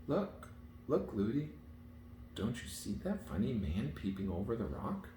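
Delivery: put-on high, rising child's call; excited child. A narrator's reading. Princess calling her nurse's attention, high and excited. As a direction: point something out eagerly.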